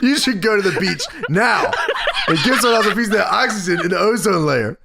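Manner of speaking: lightly voiced mock tirade, near laughter. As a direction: pronounce a mock verdict. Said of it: "Low Tier Meltzer is out of control".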